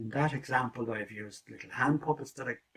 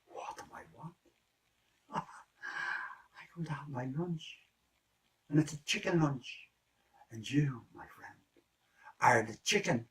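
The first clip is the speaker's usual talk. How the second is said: wolf voice; 3 semitones higher than usual. Acted. Wolf voiced in a told story.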